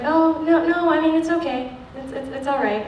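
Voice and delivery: high-pitched, hasty mock reassurance; imitated reassuring agent.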